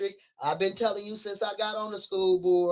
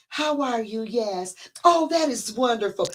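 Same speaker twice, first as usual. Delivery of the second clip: phony sweet politician; 4 semitones higher, 3 dB louder than usual. Retold or imitated. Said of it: "And they talk like this".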